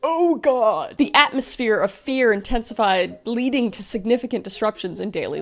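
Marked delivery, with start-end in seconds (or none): none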